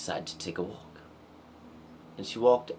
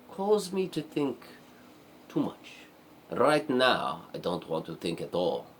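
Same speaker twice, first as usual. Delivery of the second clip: put-on princess with a light, accidental Spanish accent; slightly hammed-up Spanish-accented princess. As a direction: refuse firmly with a hint of Spanish accent. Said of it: "she just got a Spanish accent".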